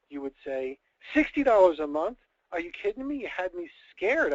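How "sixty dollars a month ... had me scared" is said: higher, disbelieving outburst of relief; incredulous relief. Acted. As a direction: sound stunned it's only that much. Wife relieved after big scare.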